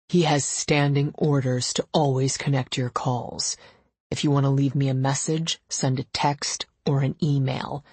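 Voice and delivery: a hint of a terse boss; brusque and matter-of-fact; lightly voiced curt husband. Gideon laying down rules to Ava, curt.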